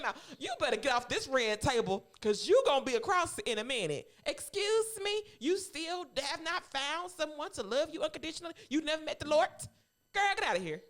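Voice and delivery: loud, mock scolding rant at a daughter; playfully cuss her out like an angry mother. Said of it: "I would have cussed her saying".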